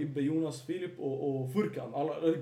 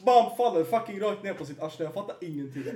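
higher, louder, laughing through the words; can barely get it out for laughing; laughing hard; 9 semitones higher, 12 dB louder than usual. Real, not acted. Laughing retelling of Ibbe's jump. (skrattar så han knappt får fram orden)

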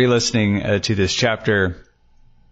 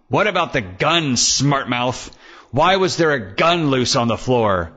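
angry; 5 semitones higher than usual. Acted. Detective confronts Evan angrily.

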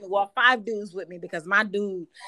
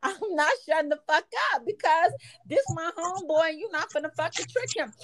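much higher, laughing through the words; laughing retort; 5 semitones higher than usual. Real, not acted. Comedian defending her homeboy while laughing, high. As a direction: push it out while cracking up.

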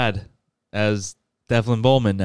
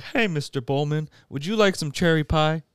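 lightly voiced, higher-pitched chef; chef offering pie; 6 semitones higher than usual. Chef offers Mister Bowman some pie, lightly voiced and higher. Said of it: "this chef comes through with this cart".

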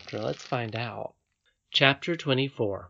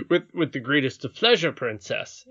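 gallant captain; 2 semitones higher, 4 dB louder than usual. Acted. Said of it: "answered the captain of the gentlemen at arms".

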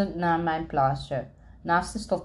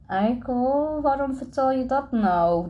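higher-pitched exasperated self-scolding; raised pitch, mild inward outburst; inner cry; 6 semitones higher than usual. A narrator's reading. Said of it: "riep ik in mezelf".

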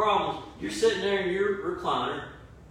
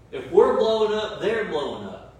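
suddenly louder on blowing up, falling at the end; louder burst; 3 semitones higher, 6 dB louder than usual. Shown as a demonstration. Preacher showing the church a blow-up, louder burst. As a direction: let it burst out to show blowing up.

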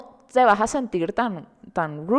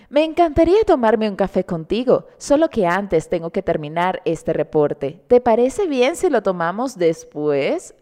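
a put-on, fake neutral Spanish accent, lightly done. Podcaster acting out a polite coffee refusal, in a fake neutral accent. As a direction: act it out in a mock neutral-accent voice. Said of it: "esta falsa voz de actuación de acento neutro falso".

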